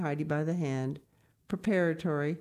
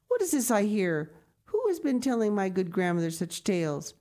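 a touch louder, kind lady's surprised protest; kindly exclaiming; 4 semitones higher, 3 dB louder than usual. Acted. Grandmama comforting the old grandmother, kindly exclaiming. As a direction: gently scold the gloomy talk. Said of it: "exclaimed a kindly voice".

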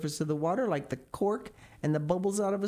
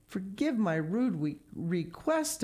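apologetic; 4 semitones higher, slower than usual. Acted. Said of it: "apologized the elephant".

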